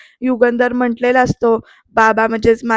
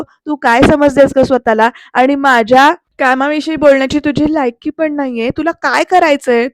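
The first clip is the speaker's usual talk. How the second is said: contemptuous retort. Retold or imitated. Pruthvi dismissing Aarti with contempt. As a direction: put her in her place.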